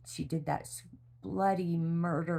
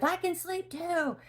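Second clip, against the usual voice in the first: much higher, slower, teasing squeaky voice; mock child voice. Partner teasing the daughter at one AM, high mock kid voice. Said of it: "He's like".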